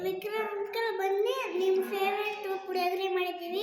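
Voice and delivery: sing-song invitation on request; recited invitation. Pretend. Child invites uncle to his favourite puliyogare, sing-song recital. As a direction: chant the invitation as you were just taught. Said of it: "ಹಂಗ್ ಕರಿಬೇಕು".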